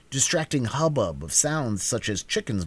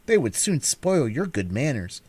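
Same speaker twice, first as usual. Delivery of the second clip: put-on disapproving girl; 4 semitones higher than usual. Dorothy lectures her hen.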